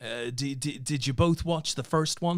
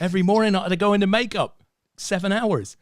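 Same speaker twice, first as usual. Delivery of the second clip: higher, louder, fast luvvie actor moan; theatrical actor voice; 5 semitones higher, 5 dB louder than usual. Pretend. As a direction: ham it up like a pampered movie star. Mock film star complaining.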